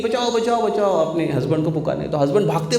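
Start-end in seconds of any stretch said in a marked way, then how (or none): 0.0-0.9 calling for help. Acted. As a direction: call out from the water for help. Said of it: "जोर से पुकारने लगी".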